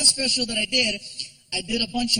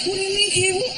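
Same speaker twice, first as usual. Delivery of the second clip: put-on higher, worried child; kid voice; 9 semitones higher than usual. Son asking his father in a frightened kid voice. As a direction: ask like a scared little boy.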